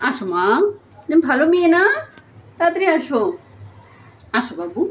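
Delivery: tender pleading with a stubborn pet; sweet coaxing. Real, not acted.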